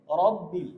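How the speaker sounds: রব্বিল with a rounded o sound; correct robbil. Shown as a demonstration. Teacher models the correct রব্বিল. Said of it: "সেখানে হবে হলো".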